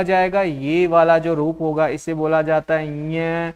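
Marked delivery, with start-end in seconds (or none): 3.1-3.5 ञ sounded as nasal nya; correct letter pronunciation. Shown as a demonstration. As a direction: say ञ as a palatal nasal letter name. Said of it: "हम शुद्ध उच्चारण सीखते हैं". (ञ का शुद्ध नासिक्य उच्चारण)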